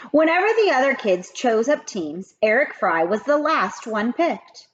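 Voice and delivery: lively read-aloud storytelling; story narration. A narrator's reading. Teacher reading a chapter aloud to kids, lively. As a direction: read it like a teacher to her class.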